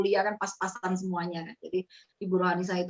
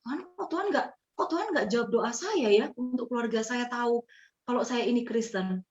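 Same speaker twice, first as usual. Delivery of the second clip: higher, plaintive prayer to God; pleading prayer; 4 semitones higher than usual. Retold or imitated. Young Christian praying to God, mildly plaintive. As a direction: ask God why, half-lamenting. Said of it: "Saya sampai gini".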